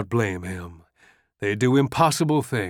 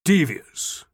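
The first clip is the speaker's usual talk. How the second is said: laughing aloud; 4 semitones higher than usual. A narrator's reading. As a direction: laugh the word out. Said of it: "He laughed aloud".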